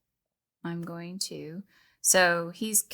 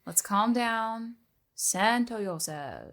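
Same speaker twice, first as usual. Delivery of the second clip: slow, calming voice; soothing; 4 semitones higher, much slower than usual. Acted. Bard calming the panicking cleric, slow and soothing. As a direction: settle him down gently.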